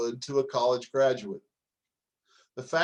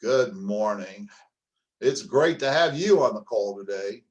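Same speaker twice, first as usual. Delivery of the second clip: flat dull greeting; 4 semitones lower, 5 dB louder than usual. Shown as a demonstration. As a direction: greet them like it's a chore. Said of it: "Or listen to this one".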